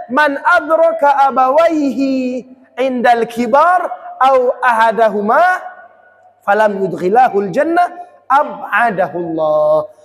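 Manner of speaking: solemn preached recitation; hadith recitation. Acted. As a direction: intone each phrase slowly from the pulpit.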